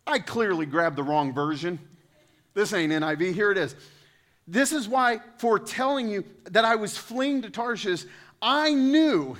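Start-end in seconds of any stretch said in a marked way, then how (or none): 4.5-9.4 whiny Jonah. Acted. Preacher voicing Jonah's complaint.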